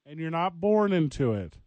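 slow, high theatrical movie quote; movie-villain monologue. Acted. Host repeats a film quote at Van, slow dramatic monologue. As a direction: draw out each phrase with grand menace. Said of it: "Big Lebowski reference or is it a Dark Knight reference".

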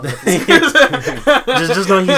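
words through laughter; laughing while talking. Real, not acted. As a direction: talk while cracking up. Host laughing mid-sentence.

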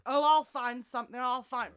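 posh landlady. Retold or imitated. Landlady voiced.

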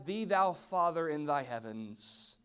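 mock formal prayer. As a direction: intone it like a stuffy church prayer. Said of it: "do you only know prayer as".

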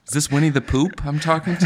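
teasing high voice. Pretend. Teasing in put-on voice.

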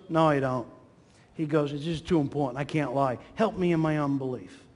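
dropped pitch, subdued admission; acted humble confession. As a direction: back down and admit it low. Father backs down and confesses doubt.

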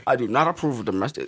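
low, stern statement voice; deep firm voice. Shown as a demonstration. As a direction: sound like a grave president. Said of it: "That sound like, uh, Richard Nixon".

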